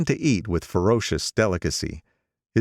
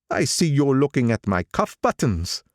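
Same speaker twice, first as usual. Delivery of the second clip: put-on higher, nostalgic old man; old gangster voice; 7 semitones higher than usual. Old gangster speaking to the narrator over lunch, higher voice. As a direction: pitch him up as the old racketeer. Wolfsheim shows cufflinks.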